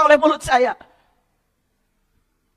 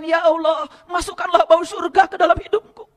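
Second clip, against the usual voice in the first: fervent prayer. Retold or imitated. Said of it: "Nabi Muhammad mengatakan".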